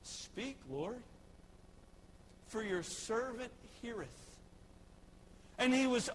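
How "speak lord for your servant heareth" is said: hushed reverent reply. Acted. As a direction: answer God in a hushed, humble breath. Samuel whispers reply to God.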